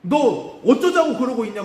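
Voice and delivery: slow, high mock rebuke, a priest chiding; scolding shout. The priest Eli scolds Hannah, thinking her drunk, slow loud rebuke. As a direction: bellow it out slowly like a stern priest. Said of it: "막 호통을 치는 거예요".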